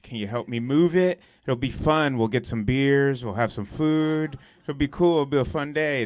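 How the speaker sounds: imitating a friend talking up a chore; upbeat sales pitch. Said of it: "make it sound like a fucking adventure".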